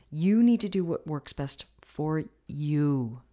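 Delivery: slow sentence with weight on "you"; slow down and lean on "you"; emphatic "you", drawn out slowly; stress on "you". Real, not acted. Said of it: "I really can't emphasize that word".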